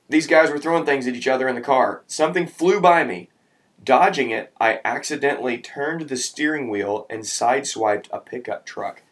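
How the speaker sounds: animated read-aloud storytelling; story narration. A narrator's reading. Adult reading a car mishap to children, animated narration.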